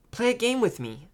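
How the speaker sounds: put-on high-pitched, pleading little girl; hopeful. A narrator's reading. Little sister asks brother to play, hopeful. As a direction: coax him hopefully in a child's voice. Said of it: "she said hopefully".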